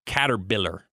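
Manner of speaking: "caterpillar" said with a b, as "cater-biller"; imitated mispronounced "caterpillar". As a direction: mimic the slip: "caterpillar" becomes "cater-biller". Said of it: "Dude said caterpillar".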